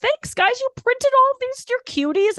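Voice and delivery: high, sweet gushing; sugary fan voice. Retold or imitated. Comedian imitating herself thanking fans, high and gushing. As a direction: coo at them like they're adorable.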